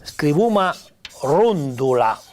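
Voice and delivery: scrivuma rondula detto in piemontese; pronuncia piemontese. Shown as a demonstration. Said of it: "Per esempio". (parole piemontesi scandite)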